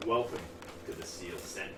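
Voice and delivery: flat robotic greeting; low mechanical robot voice. Acted. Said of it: "in a robotic voice says".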